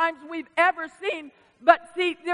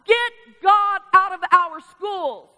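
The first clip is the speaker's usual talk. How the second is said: slow, loud, high demand; crying out; 5 semitones higher, 7 dB louder, slower than usual. Retold or imitated. People crying out against God, loud slow demand. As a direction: shout it like a crowd. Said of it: "have cried out".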